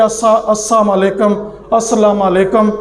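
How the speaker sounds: "السا" cut off, then "السلام علیکم" said as asam alekam; careless salam. Shown as a demonstration. Teacher imitating how we greet wrongly, mumbled. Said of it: "ہم نے اسے کہہ دیا".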